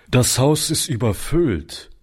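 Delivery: flat, matter-of-fact refusal; curt statement. A narrator's reading. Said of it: "entgegnete der Hausmeister".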